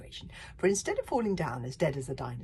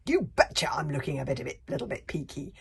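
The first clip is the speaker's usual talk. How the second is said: shrieking librarian; 6 dB louder than usual. Acted. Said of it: "shrieked the hairy, scary librarian".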